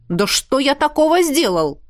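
exclaimed. Acted. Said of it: "воскликнул он".

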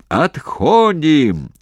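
very slow, high, loud stretched call; drawn-out shout. Acted. Commander shouting the retreat down the trench. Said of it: "протяжно закричал Головачёв".

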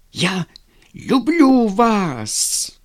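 slow, loud, high angry insistence on люблю; angry repeat. A narrator's reading. Vladimir repeating his love to Lizonka, slow angry insistence. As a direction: repeat it through anger, dragging each word. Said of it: "зло повторил он".

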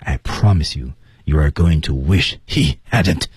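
low, even "I promise you" before the threat; smooth setup, then slow "wish he hadn't"; level lead-in. Shown as a demonstration. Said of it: "一马平川的在铺垫".

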